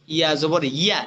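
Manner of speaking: firm onset on "ইয়া"; hard ya. Shown as a demonstration. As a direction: press the y of "ইয়া" firmly. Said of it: "ইয়াটা শক্ত". (শক্ত করে "ইয়া" উচ্চারণ)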